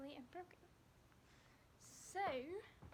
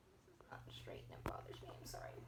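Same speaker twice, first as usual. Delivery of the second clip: whispering. Real, not acted. Fussing over the box.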